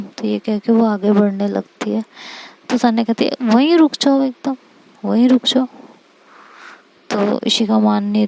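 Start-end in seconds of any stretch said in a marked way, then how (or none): 3.4-5.7 1 stern order. Acted. Girlfriend orders her to stop.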